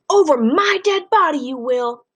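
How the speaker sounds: high, loud cry of refusal; grandma yelling at her husband, loud and high; yelling grandmother. Acted. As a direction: shout it out as a tearful grandma. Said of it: "That's Graham yelling".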